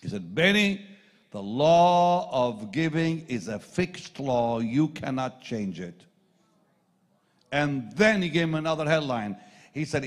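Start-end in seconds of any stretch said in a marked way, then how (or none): 0.3-6.1 slow, loud, weighty pronouncement; solemn mentor. Retold or imitated. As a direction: lay down the law deliberately. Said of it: "he gave me a line I'll never forget".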